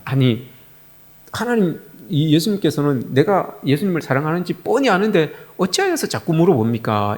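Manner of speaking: retold mild exasperation; Peter's questioning, lightly annoyed; mildly irritated. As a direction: protest with a touch of annoyance. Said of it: "이제 짜증이 좀 난 거예요".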